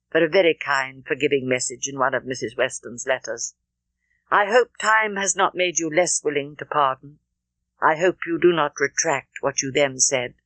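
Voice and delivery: lightly voiced Frank making amends; Frank Churchill. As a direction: apologise gently, pitched a little low. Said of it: "for Frank Churchill to draw near her and say".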